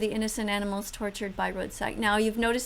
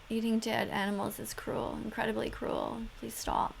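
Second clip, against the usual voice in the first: softly pleading; 5 dB quieter than usual. Real, not acted. Pleading while watching cruelty.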